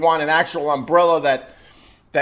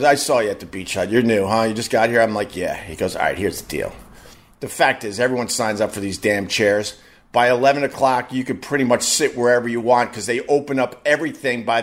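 lower, confiding worker; a hint of a low insider; 5 semitones lower than usual. Resort worker tipping off the new guest, low and confiding. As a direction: let them in on the secret. Staff guy voiced, lower.

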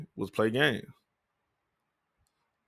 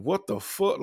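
a sudden higher-pitched what the fuck; shocked outburst; 7 semitones higher, slower than usual. Retold or imitated. Counselor hearing him quit wrestling, shocked outburst. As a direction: blurt it out, caught off guard.

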